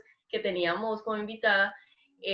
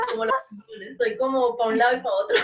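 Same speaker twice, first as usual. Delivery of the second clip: laughing; 4 dB louder, much faster than usual. Real, not acted. Laughing while confused.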